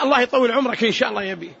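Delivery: quick, casual blessing for a father; noncommittal prayer. Shown as a demonstration. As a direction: rattle off the wish in passing. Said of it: "الولد لوالده". (دعاء عابر من ولد لأبيه)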